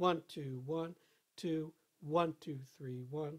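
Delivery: counting in a conductor-like rhythmic manner. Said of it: "do it like you're a conductor".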